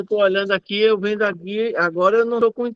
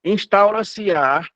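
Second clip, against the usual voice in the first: slow careful reading; slower than usual. Shown as a demonstration. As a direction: stretch out instaura-se-á slowly. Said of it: "O parágrafo único".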